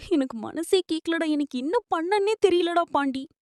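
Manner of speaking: quiet, upset plea to a friend; helpless distress. Acted. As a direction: confide it softly, at a loss. Distraught, confiding in friend after divorce.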